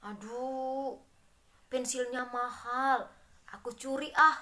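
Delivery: lightly voiced envious child, ending in a sly whisper. Envious pupil eyes a classmate's pricey pencil, whispering the theft. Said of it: "iri kepada orang lain".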